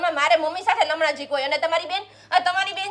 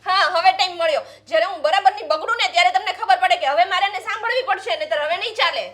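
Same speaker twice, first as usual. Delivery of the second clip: angry; 3 dB louder than usual. Acted. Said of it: "તું આટલી બધી ગુસ્સે થાય છે".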